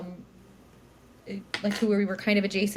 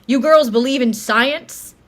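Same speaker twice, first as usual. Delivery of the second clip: mock Uber driver; 4 semitones higher, 9 dB louder, slower than usual. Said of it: "our Uber driver suddenly goes".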